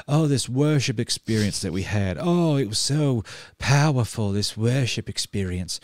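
a gushy, put-on accent, lightly mocking Hillsong fans; mock gushing accent. Mocking Hillsong fans raving about their worship experience, in a gushy put-on accent. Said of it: "which I don't know what accent that was".

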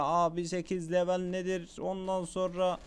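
lightly voiced viewer objection; a hint of a nagging commenter; imitating complaining viewers. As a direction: mimic a questioning audience, slightly lifted. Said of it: "Şimdi diyeceksiniz ya".

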